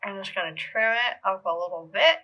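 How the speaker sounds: muffled, brush held in teeth; muffled talking. Real, not acted. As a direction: talk around a paintbrush in the mouth. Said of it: "muffled talking, 'cause I am holding the paintbrush in my teeth".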